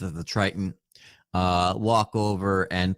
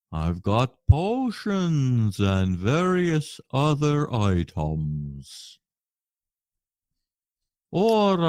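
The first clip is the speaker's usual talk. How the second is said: merchant voice; much slower than usual. Acted. GM voicing merchant selling wares.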